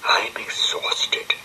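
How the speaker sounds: slow, breathless whisper; barely able to get it out; exhausted whisper. Acted. Penelope the spider after the train, exhausted whisper. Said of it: "said Penelope".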